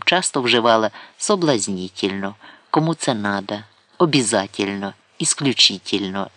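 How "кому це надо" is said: ordinary delivery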